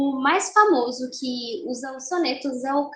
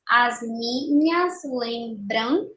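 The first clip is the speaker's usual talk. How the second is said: "as minhas lembram" slowly, one syllable at a time; escansão silábica; much slower than usual. Shown as a demonstration. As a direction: scan "as minhas lembram", stopping on the last stressed syllable. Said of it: "vamos fazer a escansão". ("as minhas lembram" devagar, sílaba por sílaba)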